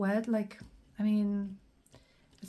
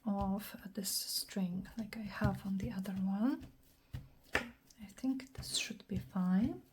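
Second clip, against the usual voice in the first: whispering; 3 dB quieter than usual. Acted. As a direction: whisper it like an ASMR tutorial. Whispered crafting commentary.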